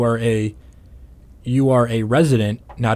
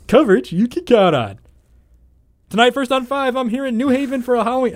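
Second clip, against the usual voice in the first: news anchor voice; 12 semitones higher than usual. Retold or imitated. Reporter going live on air.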